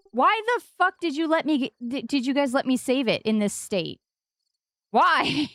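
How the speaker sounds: high-pitched playful wail of blame; mock outrage. Streamer blaming viewers for the late hour, mock outrage.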